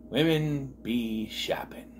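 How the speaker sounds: quoting Reggie. Retold or imitated. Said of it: "That's what he says".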